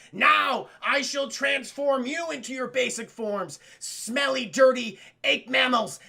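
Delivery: slow, grandiose villain pronouncement; mock villain. Villain threatens to devolve the brothers, grand mock decree. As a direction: declaim it with hammed-up disdain.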